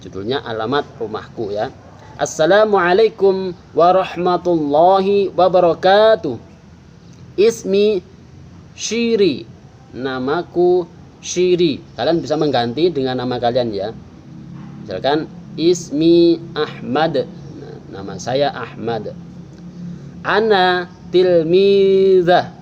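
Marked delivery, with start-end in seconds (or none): 2.2-11.8 model reading. Shown as a demonstration. Teacher reading the model text aloud to pupils. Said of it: "Paman akan baca". 20.2-22.5 slow, clear Arabic reading; model reading. Shown as a demonstration. Teacher reading the sentence slowly for pupils. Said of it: "Paman akan baca".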